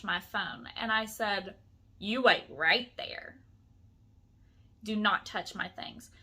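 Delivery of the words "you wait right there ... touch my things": retold stern order. Woman warns man reaching for her phone, retold stern order. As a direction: space the words out, laying down the law.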